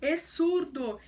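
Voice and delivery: slow, commanding order to the spirit; Jesus casting out the mute spirit, slow and forceful; stern rebuke. Acted. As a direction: lay down each word like a command. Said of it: "repreendeu o espírito imundo".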